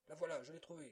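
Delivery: s'écrier, voix plus aiguë et forte; cri de découverte. A narrator's reading. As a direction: annoncer triomphalement la trouvaille. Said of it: "quelqu'un s'écria". (quelqu'un trouve la canne et s'écrie)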